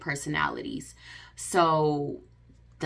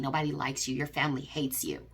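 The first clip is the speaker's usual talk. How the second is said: cold put-down; 5 dB quieter than usual. Retold or imitated. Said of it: "This is what he told me".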